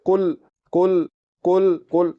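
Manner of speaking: कुल said light and forward, the mistake; slow wrong कुल with a thin kaf; the mistaken light reading. Shown as a demonstration. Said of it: "तो ये लफ्ज़ गलत है".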